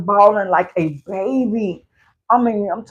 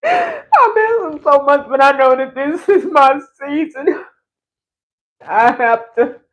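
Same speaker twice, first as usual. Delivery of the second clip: voice breaking into tears. Real, not acted. Missing him during their separation, crying. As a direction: let the sob take the words. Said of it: "I should have got me a napkins".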